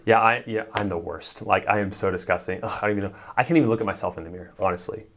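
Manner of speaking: playful, over-agreeing joke; mock self-deprecating. Shown as a demonstration. Coach demoing agree and amplify, playful. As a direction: ham up agreeing you're the worst. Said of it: "it looks something like this".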